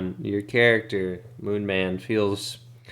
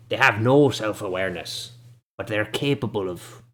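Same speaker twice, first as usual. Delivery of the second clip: hobble into it, dismissive and cranky; a shabby old local scolding the party; shabby old man. Acted.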